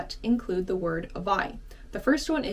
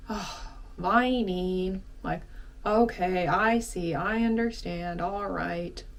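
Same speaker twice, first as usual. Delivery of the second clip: mildly disappointed; slower than usual. Shown as a demonstration. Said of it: "sounds a bit disappointed".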